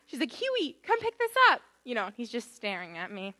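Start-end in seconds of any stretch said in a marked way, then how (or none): 0.3-1.6 high, loud imitated dog command; calling a dog. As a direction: call the dog over like its owner. Imitating owner calling her dog.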